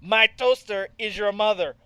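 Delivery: high, silly sketch voice; playful comedy sketch character; Kenan Thompson impression. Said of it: "that sketch on All That with Kenan".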